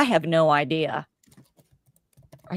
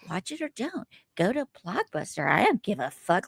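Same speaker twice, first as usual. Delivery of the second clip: mocking her old voice; 6 dB quieter than usual. Mocking her younger self's video voice, raised and softer. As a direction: send up how she used to sound on camera. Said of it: "why do I sound like".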